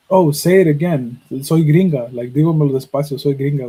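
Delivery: mock American accent on the Spanish; lightly put-on gringa accent in Spanish. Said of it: "or, like, an accent".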